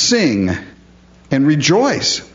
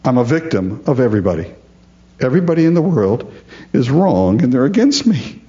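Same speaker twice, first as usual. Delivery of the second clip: high, whining self-pity; false humility; 4 semitones higher, faster than usual. Retold or imitated. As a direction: play the martyr, fishing for sympathy. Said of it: "a false kind of humility".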